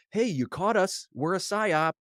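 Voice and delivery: mock caught confession. Imagined confession continues.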